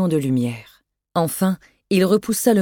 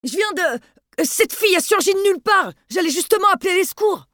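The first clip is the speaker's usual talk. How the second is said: much higher, breathless and panicky; panicked; 13 semitones higher than usual. Acted. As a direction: blurt it out in a panic. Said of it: "lança Delorme aux abois".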